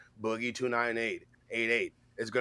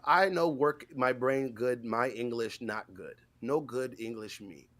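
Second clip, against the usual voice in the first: slow, dumb broken English; lightly voiced caveman; caveman talk; 4 dB quieter, slower than usual. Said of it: "talking like a caveman".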